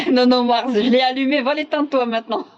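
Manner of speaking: loud call to someone off-camera. Real, not acted. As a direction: shout across the room to Mars.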